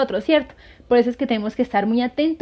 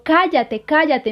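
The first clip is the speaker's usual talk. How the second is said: sharp, higher, louder commands to be silent; furious rebuke; 5 semitones higher, 4 dB louder, slower than usual. Retold or imitated. Martín silencing the tempting demon, angry shout. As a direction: snap it twice at the demon. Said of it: "se levantó furioso".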